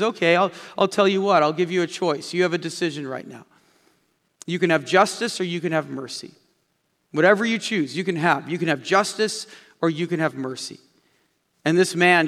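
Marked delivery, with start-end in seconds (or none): 0.0-10.8 steady, gentle Saint Peter; calm. Acted. Saint Peter offering the angry man a choice, calm. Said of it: "very calmly he looks at the man and he says".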